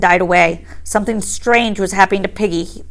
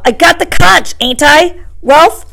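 higher, louder urgent appeal; pleading Piggy; 8 semitones higher, 5 dB louder than usual. A narrator's reading. Piggy turning to Ralph for support, urgent and pleading. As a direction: insist on your right to Ralph.

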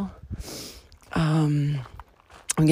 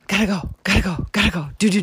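anxious inner voice; 2 semitones higher, faster than usual. Retold or imitated. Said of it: "like, panic".

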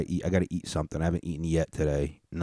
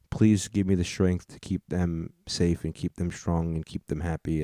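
sincere hushed prayer; 2 semitones lower, 3 dB quieter than usual. Real, not acted. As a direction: pray quietly for his sisters. Prays for his sisters.

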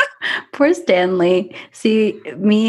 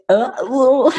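mimicking a glitchy connection, pitched up; imitated lag noise; 6 semitones higher than usual. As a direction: imitate the sound of audio lagging. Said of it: "It was like".

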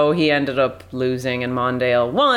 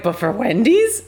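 posh affected voice; 7 semitones higher than usual. Retold or imitated. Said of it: "This is like".

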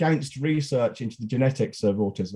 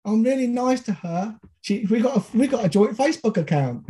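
whiny voice; 6 semitones higher than usual. Retold or imitated. Mocking defensive man's excuses.

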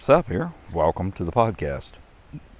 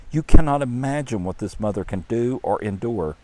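excited; 4 semitones higher, 4 dB louder than usual. Acted. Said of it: "said the Lord excitedly".

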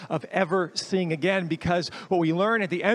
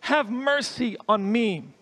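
crying out; 4 semitones higher than usual. Acted. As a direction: call out to Jesus for mercy. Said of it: "he begins to cry out".

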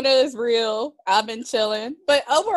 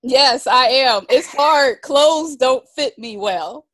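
kvetching; 3 semitones higher, 5 dB louder, slower than usual. Real, not acted. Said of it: "And you're complaining".

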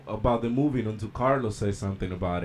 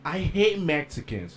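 higher, slow mimicry of an old lady; put-on lady, spelling it out slowly; imitated lady customer; 6 semitones higher than usual. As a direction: mimic the customer's deliberate delivery. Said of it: "Just like that".

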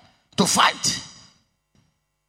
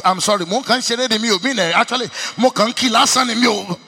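mock pleading apology; 3 semitones higher, 6 dB louder than usual. Man pleads after being caught.

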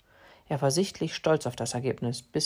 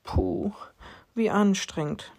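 grumbling; 4 semitones higher, slower than usual. Acted. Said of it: "meckerte Leo".

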